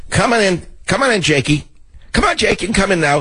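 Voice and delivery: high-pitched coaxing call; playful dog-calling. Pretend. Host calls Jakey in like a dog, playful high call.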